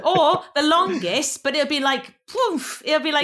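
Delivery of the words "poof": high-pitched burst noise; poof. Shown as a demonstration. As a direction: puff it out like a small explosion. Imitating a burst, mimed explosion.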